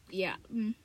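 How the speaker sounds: breathy whispered yeah; soft whispered trailing filler. Real, not acted. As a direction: drop to a whisper.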